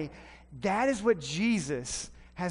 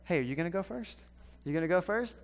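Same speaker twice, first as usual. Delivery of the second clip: nervous; 3 dB quieter, faster than usual. Retold or imitated. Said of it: "one of those kind of discussions".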